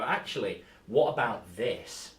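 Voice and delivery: slow, knowing suggestion in a put-on voice; lightly voiced helpful character. NPC steering players back on track, slow put-on voice. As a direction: drawl out the hint like a sly NPC. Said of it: "a character in the setting that can go".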